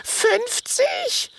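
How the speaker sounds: very high, shocked squeak; dismayed cry. Acted. Tiny dragon learns he'd need fifty of himself, shocked high cry. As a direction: cry out in alarm. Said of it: "ruft Minimo bestürzt".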